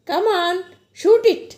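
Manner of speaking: lightly voiced uncle urging a nervous young man to speak; like her uncle. A narrator's reading. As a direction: nudge him on like an impatient uncle would. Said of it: "అచ్చు uncle అన్నట్టే అంది".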